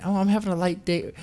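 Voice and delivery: high mincing voice mocking the poster; lilting mock of a social media post. Mocking Yaniv's post in a high voice. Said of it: "questions like".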